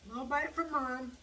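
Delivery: high, loud sing-song to a pet; pet talk. Real, not acted. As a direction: share out treats in a lifted pet-talk voice. Sharing bites with the pet.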